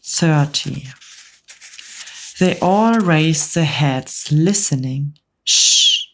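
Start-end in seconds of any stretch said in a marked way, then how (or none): 5.4-6.0 breathless unvoiced shush; urgent hush. James hushing the bugs to hear the voice, urgent shush. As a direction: hush everyone now. Listening for a far voice.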